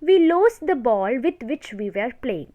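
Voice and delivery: slow, word-by-word dictation for notes. Shown as a demonstration. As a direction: read the rule out slowly so students can write. Dictating example slowly.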